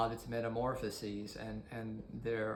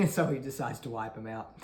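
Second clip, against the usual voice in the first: quick, laughing delivery; amused chuckle; faster than usual. Real, not acted. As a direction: chuckle as you hurry through it. Amused at absurd divine motive.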